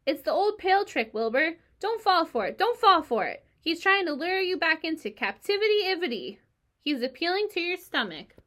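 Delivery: high, loud urgent goose voice; goose warning. A narrator's reading. Goose warns Wilbur about the pail trick, loud honking. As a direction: honk the warning fast and urgent. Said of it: "said the goose".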